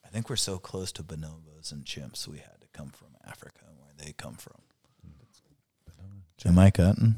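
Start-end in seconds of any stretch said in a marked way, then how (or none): 0.0-4.5 choppy call audio; bad connection. Real, not acted. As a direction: voice cutting out. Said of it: "you're cutting out a little bit there".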